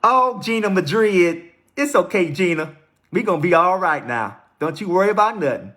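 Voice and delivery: put-on Mississippi accent, soothing. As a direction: reassure her in a playful Mississippi accent. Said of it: "in my best Mississippi accent".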